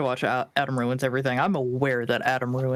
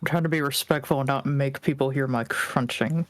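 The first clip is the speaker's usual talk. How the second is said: talking while munching; words round a mouthful of food; mouth full. Real, not acted. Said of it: "I'm just munching".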